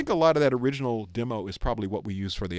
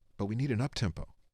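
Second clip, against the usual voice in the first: put-on quiet mutter under the breath, quieter; 6 dB quieter than usual. Retelling a marketing man's remark in a meeting: imitating someone muttering under breath. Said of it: "he kinda says under his breath".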